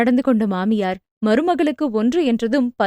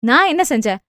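indignant; faster than usual. Acted. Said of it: "சகுந்தலாவும் எகிறினார்".

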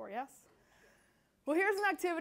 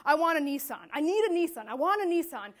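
mildly raised, insistent demand; imitated demanding customer; 5 dB louder than usual. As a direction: act out an irate customer without really screaming. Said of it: "he's screaming at me".

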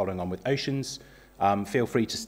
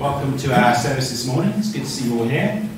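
raised, higher voice carrying to the back of the church; projected greeting; 6 semitones higher, 7 dB louder than usual. Real, not acted. Leader greets the congregation at the start of the service, projected and raised. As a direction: call out a bright welcome to the room.

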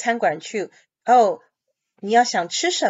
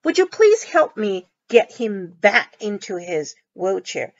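model reading; slower than usual. Shown as a demonstration. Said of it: "teacher rereads the sentence".

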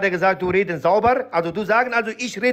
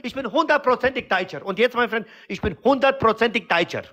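put-on higher, worked-up broken-German accent; indignant protest; 4 semitones higher than usual. Immigrant character hotly denying being Kurdish, higher accented protest. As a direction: protest your identity, voice up high.

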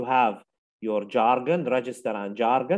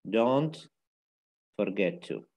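slow dictation with a long pause; word by word; 3 semitones lower, much slower than usual. Shown as a demonstration. Teacher modelling a phrase for learners, word by word. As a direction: say it slowly, pausing after "Don't".

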